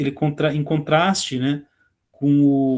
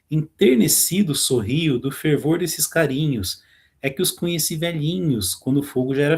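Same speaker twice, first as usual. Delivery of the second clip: poem reading. Acted. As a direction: read the lines like a poem. Teacher reads the poem aloud. (leitura de poema, pausada)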